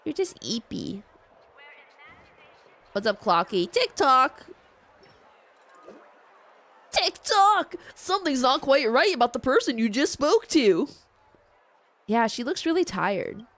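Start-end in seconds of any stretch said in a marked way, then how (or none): 3.7-10.9 high, loud cartoon voice; goofy clock character. Voices Clocky, a game figure.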